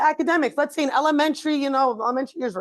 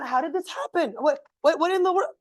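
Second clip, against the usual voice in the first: higher, indignant rant; parent going off; 5 semitones higher than usual. Retold or imitated. Parent venting about the school, indignant. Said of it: "you go off on".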